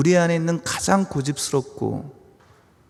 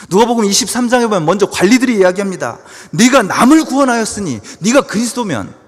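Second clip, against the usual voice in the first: loud, raised sermon delivery; forceful preaching; 7 semitones higher, 10 dB louder than usual. Acted. Preacher recounting the rulers' mockery, loud and emphatic. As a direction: drive it home to the congregation at full force.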